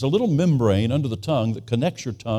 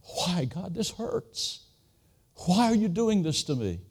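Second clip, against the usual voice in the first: crying out; 6 semitones higher, 4 dB quieter than usual. Retold or imitated. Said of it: "crying out".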